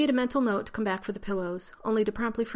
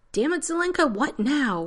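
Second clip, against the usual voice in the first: loud, much higher angry bark into the radio; irritated demand; 8 semitones higher, 7 dB louder than usual. A narrator's reading. Rodney answering Zelenka's radio call, loud irritated demand. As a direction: snap at the interruption, fed up. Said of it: "Rodney demanded".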